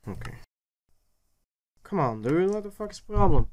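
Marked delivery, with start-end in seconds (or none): 1.8-3.5 loud, high angry outburst; raging gamer. Real, not acted. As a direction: blow up at the broken machine. Frustrated at broken machine.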